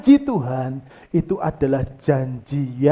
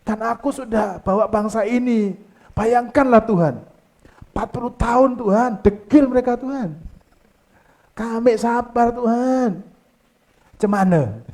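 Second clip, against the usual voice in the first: a hint of a pleading, whining Moses, pitched higher; mock-whiny plea to God, mostly in own voice; 5 semitones higher than usual. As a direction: lightly play Moses begging God. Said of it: "Sampai Musa merengek".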